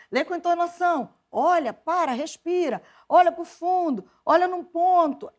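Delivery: high, loud imitated instructions, each one punched; coaching mother. Mother rehearsing her daughter for church readings, emphatic imitation. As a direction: drill them out like a coaching mother. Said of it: "Então ela dizia".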